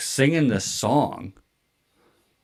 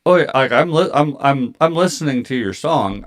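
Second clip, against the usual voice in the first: stammered, higher and louder excuse; flustered reassurance; 5 semitones higher, 4 dB louder than usual. Retold or imitated. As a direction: trip over the words while reassuring. Flustered excuse to singer, acted.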